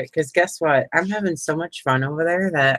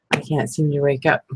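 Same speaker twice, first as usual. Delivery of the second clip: ordinary talk, nothing marked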